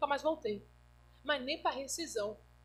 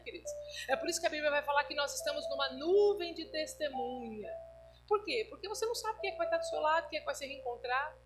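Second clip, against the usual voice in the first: louder, emphatic sermon delivery; preaching; 4 dB louder than usual. Acted. Pastor urging the congregation, emphatic preaching. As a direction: drive the exhortation home to the church.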